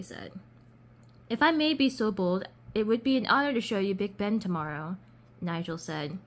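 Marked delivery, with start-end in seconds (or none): 1.3-5.0 lightly faked British gentleman; polite offer in an amateur British accent; attempted British accent. British duke invites Chloe sightseeing, attempted British accent. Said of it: "I'm trying to do a British accent".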